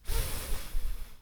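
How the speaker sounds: hissed f with no vowel; a bare voiceless f sound. Shown as a demonstration. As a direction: blow out a lone f.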